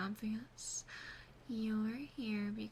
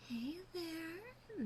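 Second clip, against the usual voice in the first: soft, higher-pitched hello; gentle greeting; 6 semitones higher, 4 dB quieter than usual. Acted. Demon sister greets the captive waking from a nap, gently. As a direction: coo a quiet greeting to someone waking.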